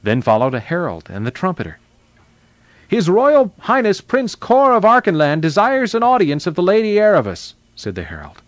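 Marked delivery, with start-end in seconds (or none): 2.9-7.5 high, loud ceremonial announcement; herald's proclamation. A narrator's reading. Herald asks audience for the prince, loud proclamation. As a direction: proclaim it grandly like a royal herald.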